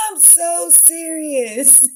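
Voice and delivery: high, slow words broken by laughter; laughing. Real, not acted. Laughing to the viewer that she means it. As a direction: laugh through the insistence.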